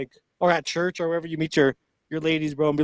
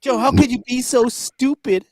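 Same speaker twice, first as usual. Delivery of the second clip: scolding woman voice; 6 semitones higher, 3 dB louder than usual. Acted. Mocking Kamala scolding.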